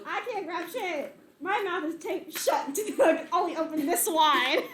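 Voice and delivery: high, slow whiny complaint; whiny head voice. Acted. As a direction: whine like a helpless head.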